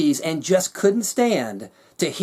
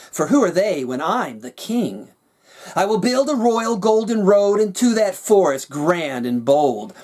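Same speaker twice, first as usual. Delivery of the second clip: 1 scheming king; 2 semitones higher than usual. Acted. Villain king declares his plan.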